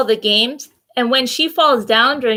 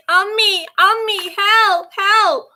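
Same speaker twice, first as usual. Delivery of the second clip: mock panicked yell; 10 semitones higher, slower than usual. A narrator's reading. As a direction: call for mom while being chased.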